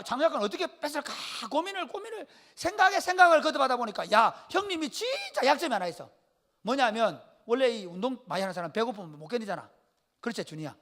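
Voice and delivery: ordinary talk, nothing marked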